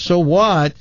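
high so what, falling at the end; indignant echo. Acted. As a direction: throw the question back, affronted. Late husband throws it back indignantly.

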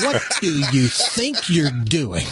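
a mild mock of an angry cop; gruff demand. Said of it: "went from kind of being polite to this".

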